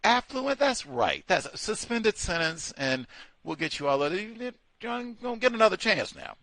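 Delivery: lightly hammed-up judge voice; mock lenient judge. Imagining a British judge, a mock lenient sentencing. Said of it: "they could have, you like".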